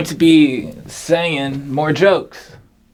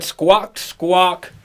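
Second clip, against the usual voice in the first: squawk; 5 semitones higher than usual. Acted. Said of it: "who said".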